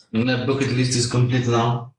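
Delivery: lightly put-on French accent. Repeating the tweet's joke to a friend, in a mock French accent. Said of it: "in a French accent".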